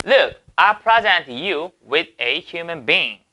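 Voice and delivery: reads the English line slowly, word by word. Shown as a demonstration. Teacher reading the example sentence aloud slowly. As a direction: spell out the sentence for students.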